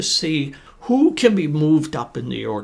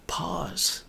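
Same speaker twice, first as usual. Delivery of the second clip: soft pause word; 9 dB quieter than usual. Shown as a demonstration. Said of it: "Using things like pausing".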